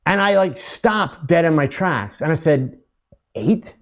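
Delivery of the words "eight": stunned question with a rising end; questioning disbelief. Retold or imitated. Speaker stopped dead by the answer, questioning it. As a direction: echo it back as a puzzled question.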